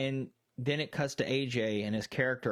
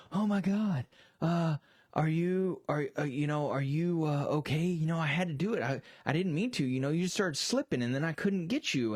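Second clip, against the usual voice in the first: fake worried guy; 3 semitones higher than usual. Guy fakes concern to the woman he dropped, mildly panicky. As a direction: ham up the guilty guy's fake worry over her.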